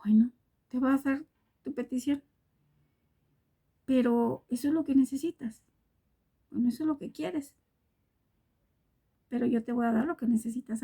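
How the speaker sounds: tender hushed divine reply; hushed voice of God. Acted. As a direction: speak like a gentle whisper from above. God answers the blind man gently.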